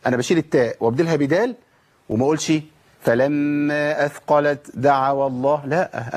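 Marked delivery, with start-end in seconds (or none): 3.0-5.7 slow recitation with a breathed ت ending أثقلت; wrong hams before dal. Shown as a demonstration. Teacher showing the faulty reading, ت with hams. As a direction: keep ت and its puff before دعوا. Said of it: "أنا كده جبت همس".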